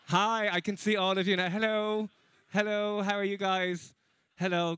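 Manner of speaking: cheery greeting. Real, not acted. Comic can see all of the audience now, cheery greeting. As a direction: call out hello to a room.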